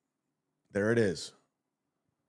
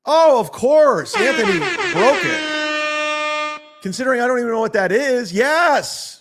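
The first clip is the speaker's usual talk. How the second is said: mock enthusiasm; 11 semitones higher, 5 dB louder than usual. Mock answer to chat question.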